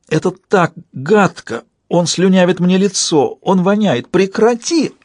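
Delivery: disgusted cry rising to a shriek; breaking into a shout. A narrator's reading. Alaria pinned under Kerf cries out in disgust, pitch rising. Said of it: "Она сорвалась на крик".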